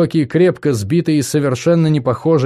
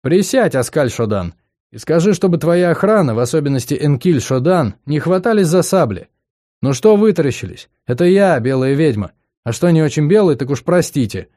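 sly witch voice; 4 semitones higher than usual. Acted. Narrator voices sly witch Fergia.

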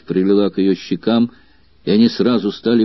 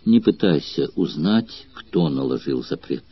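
sad; 7 semitones lower, 6 dB quieter than usual. A narrator's reading. Girl sadly refuses to tell her lover who forbids their love. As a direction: let the sadness weigh the words down. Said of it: "печально ответила девушка".

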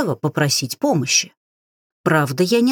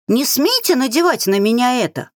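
higher, weak desperate shriek; 6 semitones higher than usual. A narrator's reading. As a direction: squeal it out with last strength. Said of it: "взвизгнула из последних сил".

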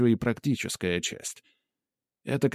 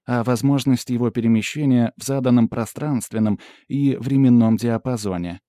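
lightly voiced assistant, slightly raised and louder; assistant giving a report; 2 semitones higher, 4 dB louder than usual. Pandora reporting scan results to the hero, lightly voiced assistant. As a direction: report findings with an analyst's formal precision.

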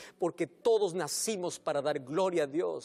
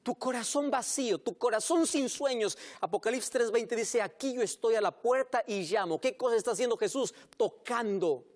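preaching at full force; 2 semitones higher than usual. Real, not acted. Pastor urging the congregation to hear Jesus, fervent preaching.

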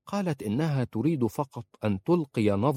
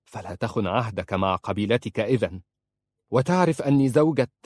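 firm, rising louder at the end; stern; 4 dB louder than usual. Acted. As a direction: scold him firmly. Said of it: "فقالت في صرامة". (بصرامة وحزم)

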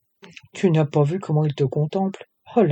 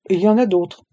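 smiling; 5 semitones higher, 6 dB louder than usual. A narrator's reading. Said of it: "répliqua Océane en souriant".

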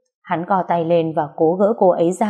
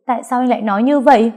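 angry; 5 semitones higher, 4 dB louder, faster than usual. Acted. Girl confronts him.

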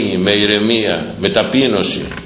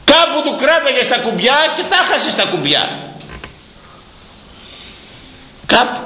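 much higher, laughing shout; half-laughing scold; 13 semitones higher than usual. Real, not acted. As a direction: tease and scold at once.

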